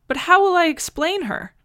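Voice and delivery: put-on an old man fussing over how to explain the baby; anxious. Worried question.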